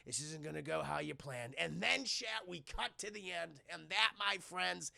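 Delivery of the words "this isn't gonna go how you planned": softer, low threat; quiet menace; menacing low voice. Retold or imitated. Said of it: "He's like".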